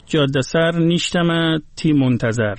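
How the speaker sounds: خواندن «جاده سر نیشتم تی منتظر» آرام با تلفظ فارسی; Gilaki read in Persian accent. Shown as a demonstration. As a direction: read «نیشتم» slowly, Persian-style vowels. (بیت گیلکی «جاده سر نیشتم تی منتظر» با لحن فارسی)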